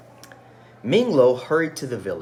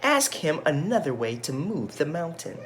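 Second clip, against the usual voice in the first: a higher nagging wife; higher, impatient wife voice; wife's voice; 6 semitones higher than usual. Acted. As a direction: press him like an impatient wife. Wife voiced in read-aloud story.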